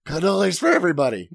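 fast, lightly voiced mobster boss; generous movie mobster, hammed up; Italian movie guy. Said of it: "the guy in every Italian movie".

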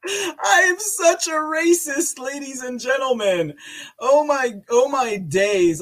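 high, loud words squeezed out through laughing; real helpless laughter. Real, not acted. Host calls himself racist to the audience, high laughing wail. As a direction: gasp it out while cracking up.

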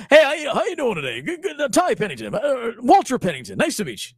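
fast, high, tumbling hello; rushed eager greeting. Retold or imitated. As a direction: gabble it like a frantic handshake. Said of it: "he'll shake your hand, like, real fast".

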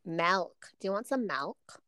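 "Milk" said as "malk"; imitating local accent. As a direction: open the vowel in "milk" toward "malk". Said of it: "Or milk".

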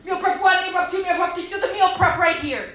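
loud, pumped-up boasting; hammed-up macho bragging; gym bro brag. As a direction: show off like a meathead.

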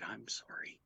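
whispered apology, barely voiced; soft whisper. Nurse quietly turning him away, whispered. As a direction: breathe the apology out gently. Nurse gently refusing admission.

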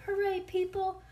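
put-on high, thrilled cheering of a little girl; excited shout. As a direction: cheer it out like a kid who can't sit still. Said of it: "I shouted".

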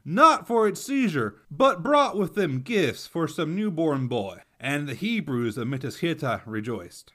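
reading the chronicle in a Texan accent; lightly put-on Texan accent for the quote. Shown as a demonstration. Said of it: "Activating my Texan accent".

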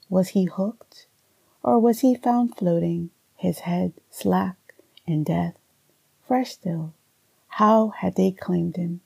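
measured, unhurried poem reading with long pauses; poetry reading. Acted. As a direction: read it like a poem, letting each image land. Poet reads her own poem.

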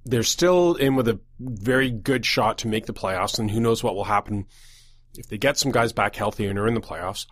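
talking around a lozenge with a cold; congested voice with a lozenge in the mouth. Real, not acted. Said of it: "kind of have a lozenge thing going".

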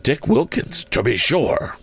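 high-pitched exclamation of recognition; delighted recognition. A narrator's reading. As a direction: exclaim on spotting an old friend. Scrooge recognises his old friend.

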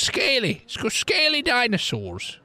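"scaly" pitched high and drawn out; stress on scaly. Acted. Drunk townsman corrects a misheard word, insistent stress on "scaly". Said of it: "with an L".

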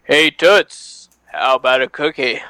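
cartoon character voice; Simpsons voice. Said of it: "You do a pretty good Simpsons voice".

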